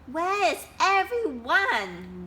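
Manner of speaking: high, loud slow wail. Acted. Duck wailing for his lost friends, high and slow. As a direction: cry out in dismay. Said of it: "wailed Duck".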